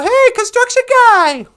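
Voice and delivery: loud, high holler over noise; calling out. Acted. Bikers hail a construction guy over his jackhammer, calling out. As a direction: shout to get a worker's attention.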